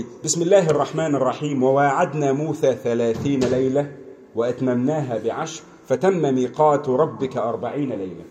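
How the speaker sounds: fast, fluent Arabic scripture recitation; Quran recitation. Acted. Preacher quoting the Quran to listeners, fast recitation. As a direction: recite the verse quickly, in one flowing run.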